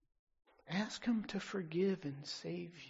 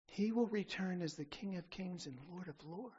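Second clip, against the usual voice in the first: quieter proclamation; 5 dB quieter than usual. Real, not acted. Second King of Kings, held back.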